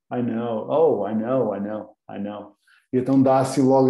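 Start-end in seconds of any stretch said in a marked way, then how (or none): 0.1-2.6 pretend-fluent I know, I know, fading softer; mock fluent nodding. Teacher acting a student faking fluency in conversation. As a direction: fake understanding with easy I know, I know. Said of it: "Mesmo que não estejam a entender".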